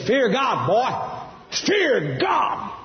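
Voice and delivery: high, forceful shouted command; commanding preacher's cry; thundering God voice. Retold or imitated. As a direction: boom it out as God's warning from the sky. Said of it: "it was thundering and lightning. And he said".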